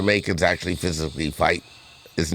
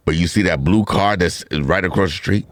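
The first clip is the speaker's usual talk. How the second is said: mock police constable; 3 semitones lower than usual. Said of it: "This is Constable Brown".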